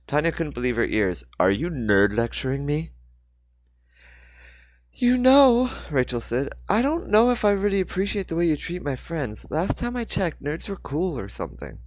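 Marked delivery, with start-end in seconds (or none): 1.4-2.9 lightly voiced indignant girl; mock offended; a touch of indignant teen. Teen girl quarrel in car. 4.9-11.8 Rachel defending her friends; Rachel's voice. A narrator's reading. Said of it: "Rachel said with irritation".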